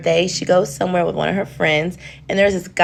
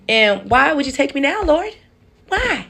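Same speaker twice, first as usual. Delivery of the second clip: much higher, rising hammed-up cry to the Lord; mock despairing plea; 8 semitones higher than usual. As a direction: wail it up to heaven in mock despair. Thinks she died in the crash.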